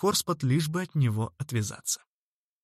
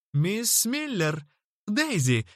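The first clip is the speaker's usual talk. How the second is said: high, drawn-out happy cry; exclaiming; 8 semitones higher, slower than usual. A narrator's reading. Horspot greeting Daisy, cries out her name. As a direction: call her name out gladly. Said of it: "вскричал он".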